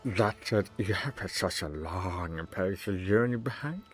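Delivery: a hint of an oily host greeting lords; mildly voiced fawning governor; pompous governor. Governor voice again.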